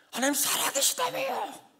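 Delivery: high, strained, tearful cry to God; weeping prayer. Retold or imitated. Pastor retelling his tearful prayer to God, high and weeping. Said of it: "막 울었어요".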